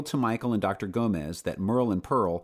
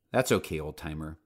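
smiling. Acted. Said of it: "she added with a smile".

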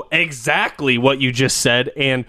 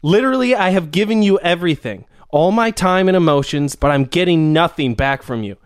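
higher, pleading mock girlfriend; mock emotional girlfriend; 3 semitones higher than usual. Mock girlfriend begging her boyfriend for answers, pleading. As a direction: pour your heart out in a mock plea.

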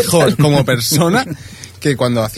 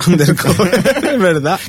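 risa burlona mientras habla; riendo; 6 semitones higher, 3 dB louder, much slower than usual. Real, not acted. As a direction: entre carcajadas. Risa al recordar la serie. (riendo con burla)

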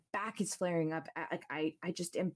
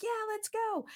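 much higher, bright mock agreement; eager friends agreeing. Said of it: "And they were like".

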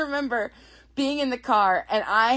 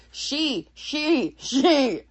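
higher, building louder on each word; mock-exasperated correction, growing more insistent; 6 semitones higher, 5 dB louder, much slower than usual. Viewer correcting TV doctors from the couch, exasperated and louder each time.

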